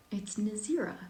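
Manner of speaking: Nazira said carefully as the answer; pronunciation demo. Shown as a demonstration. Author answering how to pronounce the name, pronunciation demo. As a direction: give Nazira as the model pronunciation. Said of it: "That's how you pronounce it".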